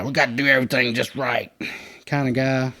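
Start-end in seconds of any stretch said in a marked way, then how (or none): 0.0-1.5 a hint of a stiff by-the-book guy; lightly mock the strict type; rigid rule-follower. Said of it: "one of those hard right guy".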